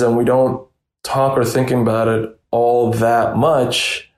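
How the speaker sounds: real, understated frustration; a little frustration. Real, not acted. Reporter on long-ignored neglect in care homes, mildly frustrated. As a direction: let slight exasperation seep through. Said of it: "I can sense a little frustration".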